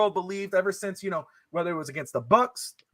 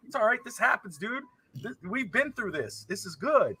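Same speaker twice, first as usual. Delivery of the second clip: soft, higher-pitched reassurance; retold comforting; 5 semitones higher, 6 dB quieter than usual. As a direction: gently console a disappointed little kid. Retold comforting of his crying son.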